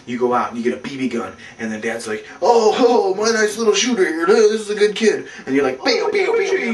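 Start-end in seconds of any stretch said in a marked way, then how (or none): 2.4-5.3 proud dad impression. 5.8-6.7 higher playful pew-pew firing; mock gun noises. Imitates shooting the BB gun.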